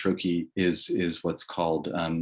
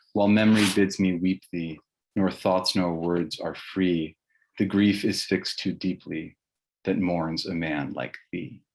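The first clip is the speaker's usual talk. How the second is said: slow, solemn elegy reading; a slow, grieving recital of a verse elegy; poem reading. Acted. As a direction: read it like a mourning poem, slowly. Reads Halleck's elegy aloud.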